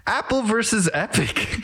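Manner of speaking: high, stiff announcer robot. Pretend. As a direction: state the topic like a robot. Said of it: "introducing a new topic in a robot voice".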